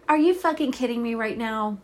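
loud, real outburst of disbelief; real angry shout at the TV; outraged disbelief. Real, not acted. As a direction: blurt it out, genuinely furious at the screen. Shocked that Ben was killed.

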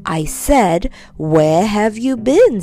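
slow, hard repeat of the question; angry aunt. Acted. Aunt repeating her question to Metal, angry. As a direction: demand an answer, angrily. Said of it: "said his aunt angrily".

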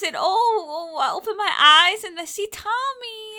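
high, squeaky newborn babble; baby creature voice. Pretend. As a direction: coo it like a newborn creature just hatched. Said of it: "never opened their eyes".

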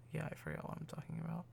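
sleepy, drowsy talking; nodding off. Real, not acted. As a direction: talk like you're falling asleep. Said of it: "I'm falling asleep".

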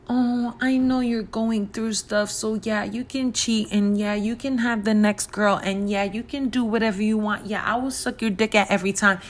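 lightly mimicked, overly accommodating white woman; mock extra-nice woman. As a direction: gently put on a too-nice, anything-goes girlfriend. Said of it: "tend to be extra nice to black".

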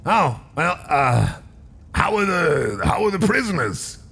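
high squeaky rat voice. Acted. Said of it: "that's not a good Piper voice".

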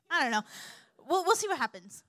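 high, loud mock hesitation; unsure. Mock unsure version, continued.

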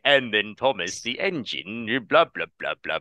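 low, lightly voiced children's TV narrator; droning storyteller, mock kids' show; imitating the narrator. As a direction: do a lazy impression of the Thomas narrator. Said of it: "He's like".

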